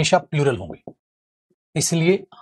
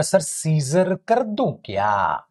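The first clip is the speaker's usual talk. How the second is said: mock student; much slower than usual. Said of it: "अगर वो बोलेगा".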